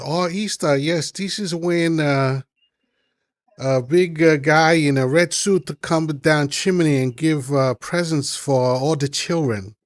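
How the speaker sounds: lightly put-on Asian accent. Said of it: "I could do the Asian accent".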